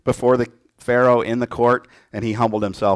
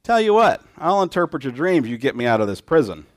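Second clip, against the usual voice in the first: scheming Jacob; 2 semitones higher than usual. Retold or imitated. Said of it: "what might Jacob say?".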